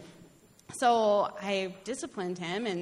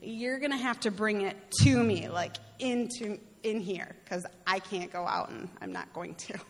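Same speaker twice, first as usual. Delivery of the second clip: insisting, half joking, that God bring it to her; emphatic plea to God; 2 semitones higher, 5 dB louder than usual. Retold or imitated. Telling God firmly what to do, raised and emphatic. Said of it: "I was like".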